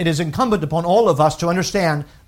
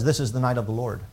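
reverent; 4 semitones lower, 5 dB quieter, faster than usual. Retold or imitated. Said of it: "No, he says".

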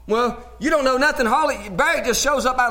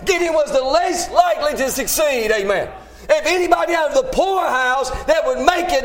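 raised, driving sermon delivery; emphatic preaching; 3 semitones higher than usual. Real, not acted. Preacher telling the congregation God uses nobodies, emphatic preaching. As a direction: preach it with building fervor, leaning on key words.

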